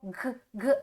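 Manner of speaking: g, g dito como som curto da letra; g sound. Shown as a demonstration. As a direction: solte o som g, g sozinho. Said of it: "A gente já viu esse sonzinho hoje". (som da letra g)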